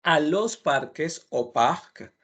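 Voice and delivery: "al parque o parc" said slowly; slow model pair. Shown as a demonstration. Teacher slowly compares Spanish and French for students.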